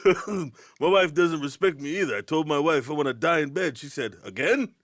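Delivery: lightly voiced Rodney Dangerfield one-liner; a hint of the old comic's punchline delivery. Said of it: "I'm not Rodney Dangerfield".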